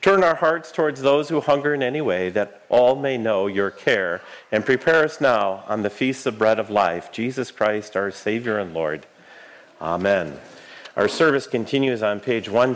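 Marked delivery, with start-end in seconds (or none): 0.0-10.4 prayer. Real, not acted. Leads offering prayer.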